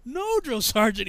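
lightly acted recruit answer; recruit's refusal. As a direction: refuse the sergeant, drawn out.

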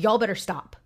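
put-on mildly mean warning to the kids; a touch of irritated parent, no country twang; mean accent. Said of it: "a mean accent".

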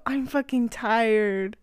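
slow, drawn-out mock exhaustion; mock weary groan. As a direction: stretch it out like you can barely stay awake. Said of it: "he would go".

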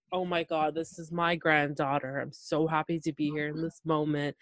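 soft, hushed awe; quietly overwhelmed grandfather; softly voiced tender wonder; awed. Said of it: "It was like".

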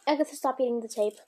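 fast, loud scold of a cat; firm reprimand to a pet. Real, not acted.

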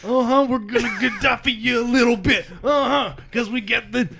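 cocky, rising to a laughing shout; taunting trash talk. Pretend. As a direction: hype up the crew, mock the goat man. Taunting the goat man, hyped up.

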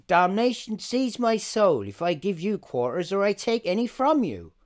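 a mock-seductive purr, lightly voiced. Pirate captain's threat redone as mock seduction. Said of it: "that's very seductive".

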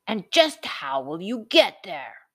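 whispered menacing troll taunt; growled troll. A narrator's reading. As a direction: hiss the taunt like a sly troll. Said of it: "growled the troll".

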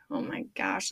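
whispered dismay. Retold or imitated. Dismayed at cop.

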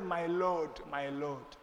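bow your voice in respect; reverent wife. Retold or imitated. Sarah addressing Abraham, quiet and reverent. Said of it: "Sarah said".

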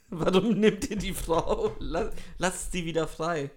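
hammed-up indignant listener; mock hate mail. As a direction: plead like an outraged letter-writer. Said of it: "Hassmail so".

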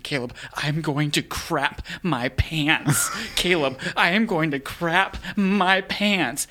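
slow, half-laughing mock panic, pleading; retold panic. To friend Caleb on the bus, mock panicked pleading. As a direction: beg a friend for help, slowly and urgently. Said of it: "And I'm freaking out".

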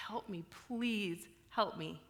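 slow, soft whispered plea for help. Shown as a demonstration. Alone on the basement step, whispering a plea to God. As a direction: breathe it out as a desperate prayer. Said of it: "And then I just say".

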